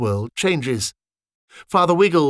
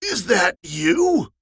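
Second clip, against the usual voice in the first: slow, higher, unbelieving; old soldier recognising his brother; surprised question; 7 semitones higher, much slower than usual. Acted. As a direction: stretch it out in disbelief. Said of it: "said Roger as he stood up".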